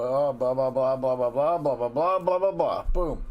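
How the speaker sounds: eager stream of nonsense syllables; gushing list. Acted. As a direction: rattle off a mock list, building in pitch. Acts out rattling off loved qualities.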